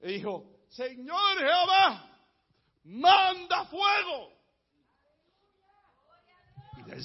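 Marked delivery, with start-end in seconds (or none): 0.7-4.3 high, very slow commanding call; slow, raised-pitch prophet's cry; crying out to God. Retold or imitated. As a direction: call to heaven, each word stretched. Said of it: "que él clamó a Jehová".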